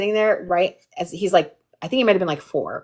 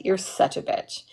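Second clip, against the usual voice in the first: deadpan whisper; 7 dB quieter than usual. Retold or imitated. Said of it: "she said".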